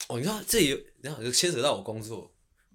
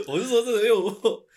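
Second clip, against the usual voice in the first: laughing; 11 semitones higher, 10 dB louder than usual. Real, not acted. Laughing protest.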